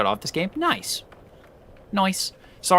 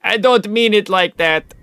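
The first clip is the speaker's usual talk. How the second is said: high, slow, earnest mock apology; apologetic self-quote; 8 semitones higher, 6 dB louder, slower than usual. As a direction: plead it sweetly, slow and high. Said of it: "And I'm like".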